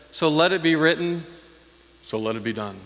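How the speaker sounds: lightly voiced royal decree; Pharaoh's decree. Preacher quoting Pharaoh's famous line, mildly stately. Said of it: "He said".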